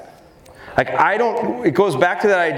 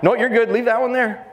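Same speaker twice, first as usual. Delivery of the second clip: dog's thought, lightly voiced; 8 semitones higher than usual. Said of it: "She thought".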